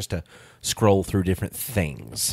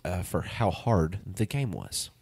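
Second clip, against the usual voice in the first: reading aloud. Real, not acted. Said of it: "It says".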